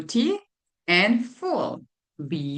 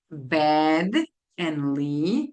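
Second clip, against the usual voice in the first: slow, split apart; 3 semitones lower, much slower than usual. Shown as a demonstration. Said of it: "word split apart".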